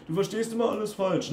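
high-pitched mocking accusation; mocking stock phrase. Coach mimics critics blaming him for misunderstanding, mocking. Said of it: "Das sind dann diese Standardsprüche".

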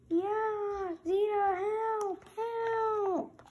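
high, thin cries for help; calling for help. Acted. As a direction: panicky plea to Zeta. Character grabbed, calling for help.

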